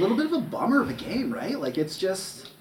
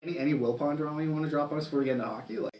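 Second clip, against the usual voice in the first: laughing; 4 dB quieter than usual. Real, not acted. Teasing invitation to share gossip.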